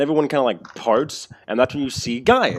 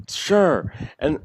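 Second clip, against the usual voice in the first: sarcastic; 6 semitones higher than usual. Acted. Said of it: "he says sarcastically".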